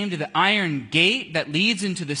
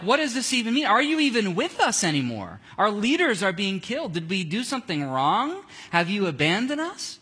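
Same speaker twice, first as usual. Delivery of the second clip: raised, anxious crying out to God; a retold, louder desperate plea; desperate pleading prayer; 3 semitones higher, 4 dB louder than usual. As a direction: plead with God as a frightened church. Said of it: "I'm sure it was pretty desperate".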